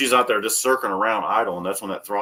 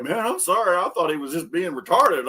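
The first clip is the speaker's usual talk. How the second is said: mock apologetic guy; 8 semitones higher than usual. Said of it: "he's like".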